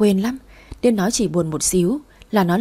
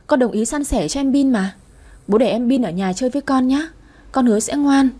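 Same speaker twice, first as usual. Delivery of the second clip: put-on eager pleading child; 4 semitones higher than usual. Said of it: "gật đầu lia lịa".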